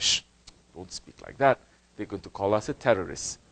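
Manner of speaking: hushed timid quote. Retold or imitated. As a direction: shush them like a scared believer. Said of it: "He said".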